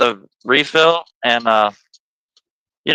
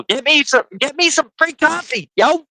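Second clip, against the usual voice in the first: higher joking plea; playful begging; 11 semitones higher than usual. Real, not acted. Host joking to viewers to buy coffee, higher playful plea.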